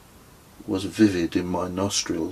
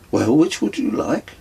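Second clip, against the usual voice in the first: higher, louder insistent question; Claudio, higher and louder, pressing the guest to choose; character voice; 8 semitones higher, 5 dB louder than usual. A narrator's reading. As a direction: push the host's offer again.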